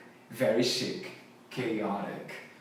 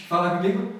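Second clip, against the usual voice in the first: laughing; 2 semitones higher, faster than usual. Real, not acted. Laughs while prompting students.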